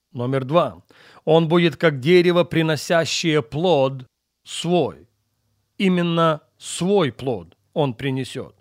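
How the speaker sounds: ordinary talk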